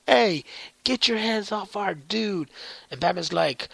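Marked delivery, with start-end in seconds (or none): 0.1-2.5 a hint of teen heroes yelling; Rangers shouting. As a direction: call out like protective teens. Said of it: "they're like".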